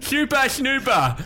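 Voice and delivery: Super Snooper said slowly as shupa shnuba; slushy Super Snooper with sh sounds. Pretend. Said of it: "I changed my buzzer to Super Snooper".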